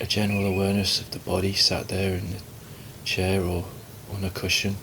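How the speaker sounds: calm, unhurried meditation guidance with long pauses; guided meditation. Acted. Teacher guiding listeners to relax and watch the breath, calm meditation voice. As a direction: ease them gently into stillness, leaving space between phrases.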